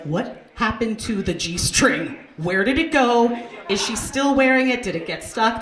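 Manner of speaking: mock-perplexed questions, drawn out at first; baffled saleswomen. Saleswomen at their monthly meeting, mock bafflement. Saleswomen puzzling over missing G-string.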